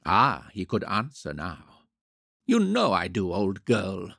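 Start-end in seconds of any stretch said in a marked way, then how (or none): 2.4-4.2 earnestly. A narrator's reading. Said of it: "he said earnestly".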